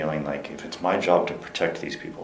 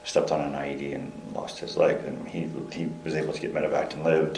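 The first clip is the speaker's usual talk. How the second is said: too quiet; 5 dB quieter than usual. Real, not acted. Interviewee recounting a captain's injury, too quietly. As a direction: recount it softly, under full voice. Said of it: "speak a little louder".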